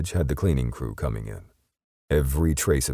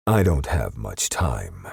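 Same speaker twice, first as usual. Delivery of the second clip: snarling; 3 semitones lower, slower than usual. Acted. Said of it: "Justice snarled".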